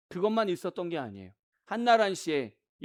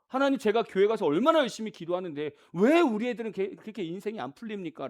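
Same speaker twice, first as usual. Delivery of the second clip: arguing complaint; 3 semitones higher, 3 dB louder than usual. Acted. Parent protesting to God about the children, arguing complaint. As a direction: voice lifted in mock protest. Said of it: "라고 따져요".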